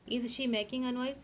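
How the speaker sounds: very slow, word by word for students to write; slow, careful dictation pace. Shown as a demonstration. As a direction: spell it out slowly for the class to copy. Teacher dictating English question.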